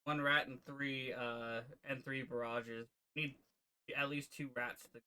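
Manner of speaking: talking while eating soup; words around a mouthful of soup. Real, not acted. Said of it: "Sorry, eating soup".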